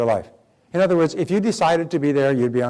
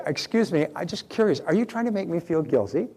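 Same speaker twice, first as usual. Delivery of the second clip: gentle curious question; 3 semitones higher than usual. Shown as a demonstration. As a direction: ask it curiously, not attacking. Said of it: "You're not attacking them".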